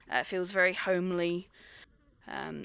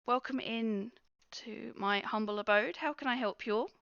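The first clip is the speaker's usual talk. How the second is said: halfling innkeeper; 5 semitones higher than usual. Acted. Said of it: "she looks at you all and goes".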